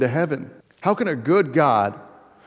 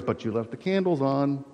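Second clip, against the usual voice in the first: softer, lightly acted reminder; nagging inner voice; 7 dB quieter than usual. Preacher voicing a bedtime worry, quiet nagging inner voice. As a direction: drop the volume for a thought at the back of the mind. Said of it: "that voice in the back of your mind goes".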